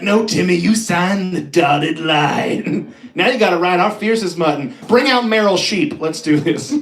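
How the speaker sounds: lightly voiced gung-ho announcer; pushy commissioner. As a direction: hype it like a ruthless rodeo boss. Commissioner in the nineties.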